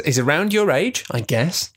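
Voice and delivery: sly leering read. Acted. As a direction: lean in and leer the words. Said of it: "I love that you're doing this leering voice".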